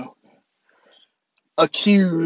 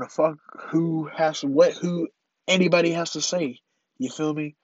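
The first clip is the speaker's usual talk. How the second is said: congested, blocked-nose voice; stuffy nose. Real, not acted. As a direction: speak as if your nose is stopped up. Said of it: "My fucking nose stopped up".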